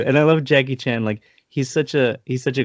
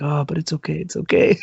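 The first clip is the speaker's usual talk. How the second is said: higher, lightly voiced brushing-off; brave mock Jackie; 7 semitones higher than usual. Retelling Jackie brushing off the hit, higher mock voice. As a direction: play it down in a put-on higher voice. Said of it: "He's like".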